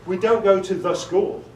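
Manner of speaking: "the" punched as the unwanted word in "the school"; stress on THE. Shown as a demonstration. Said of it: "for the same reason".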